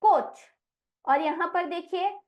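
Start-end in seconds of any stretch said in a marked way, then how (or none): 0.0-0.4 कोच said louder and higher as coach; emphatic model word. Shown as a demonstration. Teacher announcing the word to the class, loud and high. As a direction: call out कोच clearly. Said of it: "अगला शब्द है कोच".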